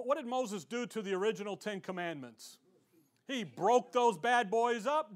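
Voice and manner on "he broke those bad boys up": emphatic punchline. Real, not acted.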